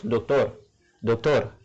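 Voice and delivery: "doctor" stressed on the last syllable, TOR; stress on final syllable. Shown as a demonstration. Teacher giving an example of the rule, "doctor" with stressed TOR. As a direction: lean on TOR at the end of "doctor". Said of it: "accent tonique la trouve sous dernière syllabe".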